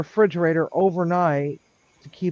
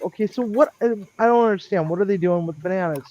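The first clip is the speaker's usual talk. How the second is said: baffled and impatient; 3 semitones higher, faster than usual. Retold or imitated. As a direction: rush her for the answer.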